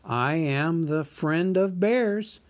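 a small hobbit flattering the dragon; Bilbo the hobbit. Acted. Narrator voices Bilbo.

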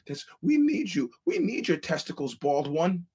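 squeaky toady; mock sycophant. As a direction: grovel to the bald one. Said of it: "nut jumpers are like".

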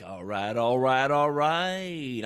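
drawn-out run, climbing in pitch; playful catchphrase. Acted. Playful catchphrase after saying he likes it.

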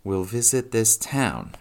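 stretched, lifted reading-aloud voice. A narrator's reading. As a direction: read it out word by word, drawn out. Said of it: "she read it out".

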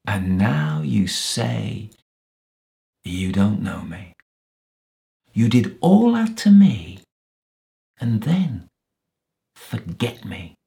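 wounded accusation surging high and loud; bitter, incredulous complaint; aggrieved reproach. Acted. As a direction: build to an outburst, then drop away.

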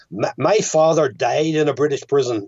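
lightly put-on Belfast accent; Daniel Day-Lewis impression. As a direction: imitate an actor's Belfast accent. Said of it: "his Belfast accent as opposed to the Dublin accent".

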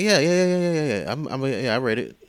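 hurried string of yeahs, settling down; bullshitting. Retold or imitated.

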